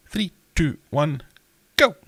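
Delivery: high, bright game show countdown; excited countdown. Acted. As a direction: count them in with energy. Quiz countdown.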